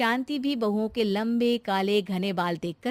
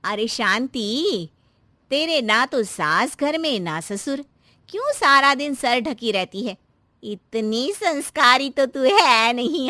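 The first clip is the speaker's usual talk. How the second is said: a lightly voiced nosy neighbour; teasing neighbour; 2 semitones higher, 5 dB louder than usual. Neighbour teasing Shanti, lightly voiced nosy tone. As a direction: tease her about covering her head. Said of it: "पड़ोसन आती है".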